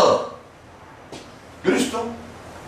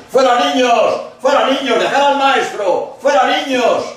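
put-on raised, higher voice, shooing kids off; shooing children away; 7 semitones higher than usual. The apostles shoo the children from the master, raised and higher.

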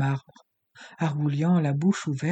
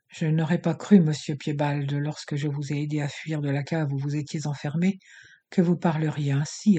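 contemptuous. Acted. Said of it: "observa Sonia méprisante".

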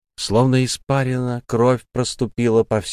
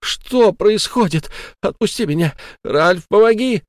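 much higher, louder shrieking; panicked cry for help; 11 semitones higher, 4 dB louder than usual. Acted. Sara shrieks to Ralph for help in terror. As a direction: scream for rescue.

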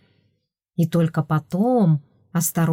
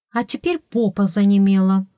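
whiny spoiled pouty drawl; 2 semitones higher than usual. Acted. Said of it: "закапризничала я".

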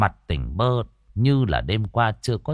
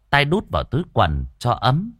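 ordinary delivery

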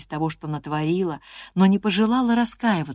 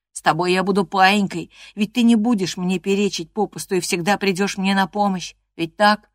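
lightly voiced boy, coaxing and a bit louder; a hint of a whiny cousin begging for visits; sickly boy pleading; 3 semitones higher, 3 dB louder than usual. Linton coaxing Catherine to visit him, pleading voice.

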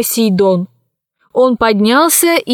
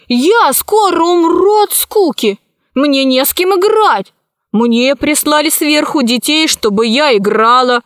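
put-on high-pitched bored little girl; complaining child; 4 semitones higher than usual. Heiress complains she has nobody to play with, high-pitched whine. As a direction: whine high like a spoilt daughter.

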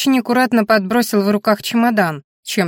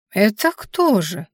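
serious; slower than usual. Acted. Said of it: "поинтересовалась серьёзно Ба".

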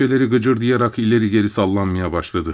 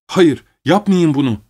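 raised, higher pleading cry; maid crying out; 6 semitones higher, 4 dB louder than usual. A narrator's reading. Frightened maid begs the doctor not to leave her, loud cry. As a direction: cry out against it, louder and higher. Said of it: "diye bağırıyor zavallı hizmetçim".

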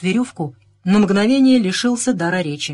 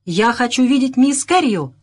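higher, insistent demand; an understated angry call; mild narrated shout; 6 semitones higher, 4 dB louder than usual. A narrator's reading. Irritated gentleman demands to see Miss Carrio, mild shout. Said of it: "крикнул он".

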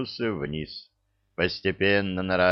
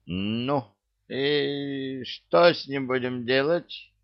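stern question; 6 semitones higher, slower than usual. A narrator's reading. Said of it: "сурово вопросил трус".

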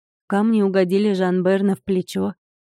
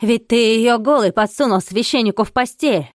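shouting; 3 semitones higher, 4 dB louder than usual. Acted. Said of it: "закричал он".

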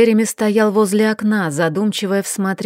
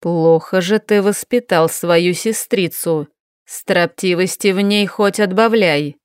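cold remark. Acted. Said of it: "он холодно произнёс".

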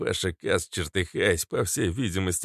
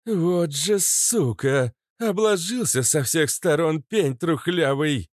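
higher, slow furious outburst; roared; 9 semitones higher, 3 dB louder, slower than usual. Acted. Kobra curses the grandpa, mock roar. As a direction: bellow the curse. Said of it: "взревела Кобра".

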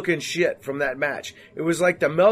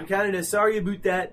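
put-on Canadian accent; 3 semitones higher than usual. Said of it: "That's actually a good fucking, fucking accent".

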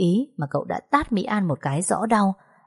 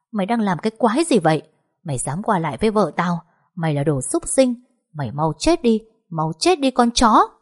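furious cursing; 3 semitones higher than usual. Acted. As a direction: spit the last curse out. Husband beating rival, cursing.

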